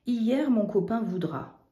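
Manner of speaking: hier stressed, then falling; testing hier. Shown as a demonstration. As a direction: try the word hier on the sentence. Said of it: "hier, maintenant ou demain". (essayer hier avec insistance)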